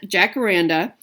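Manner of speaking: "jacaranda" spoken as one distinct word; careful pronunciation. Shown as a demonstration. Vlogger checking with Lynette that she pronounced it right, careful pronunciation. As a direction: try "jacaranda" carefully, as coached. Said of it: "hopefully I pronounced that right".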